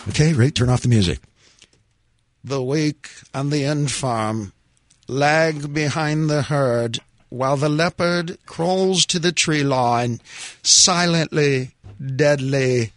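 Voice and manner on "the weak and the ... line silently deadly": put-on very slow, hushed nature-film narrator with a British accent; grave, spaced-out British documentary narration. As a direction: narrate like a British wildlife documentary, pausing between phrases. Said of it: "I'll do my favorite documentary voice".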